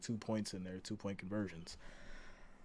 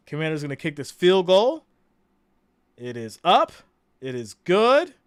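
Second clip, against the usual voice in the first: play-by-play call; 3 semitones higher, 4 dB louder than usual. Real, not acted. Calling a field goal live.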